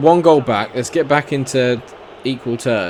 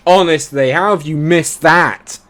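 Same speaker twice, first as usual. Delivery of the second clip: exasperated; 6 semitones higher, 8 dB louder, slower than usual. Real, not acted. After the miss.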